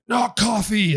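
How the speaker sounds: high, loud mock shout of a costumed mascot; mascot yell. Imitating the mascots spotting the player, a high loud mock yell. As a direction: bark it out like a charging coffee-mug mascot. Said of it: "they're like".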